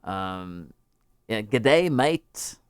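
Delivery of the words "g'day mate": badly faked Australian greeting; hammed-up amateur Australian twang; very bad Australian accent. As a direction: attempt a cheesy Australian accent. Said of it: "I do a very bad Australian accent".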